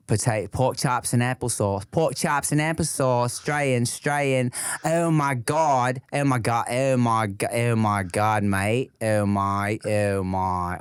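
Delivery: trying out a rough Australian accent; lightly put-on Australian vowels. Shown as a demonstration. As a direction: practise a wobbly Australian accent. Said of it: "let me get my Australian accent here".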